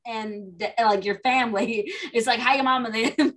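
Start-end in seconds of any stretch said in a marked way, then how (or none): 2.4-3.3 Southern accent, words run together; relaxed Southern "mom 'n' 'em". Shown as a demonstration. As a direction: skip over the consonants like a Southerner. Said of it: "we don't say the full word".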